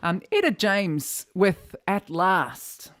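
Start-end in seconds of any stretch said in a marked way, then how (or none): 1.9-2.9 said plainly in a New Zealand accent; everyday New Zealand accent. Shown as a demonstration. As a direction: read the title the Kiwi way. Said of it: "I say that in my New Zealand accent".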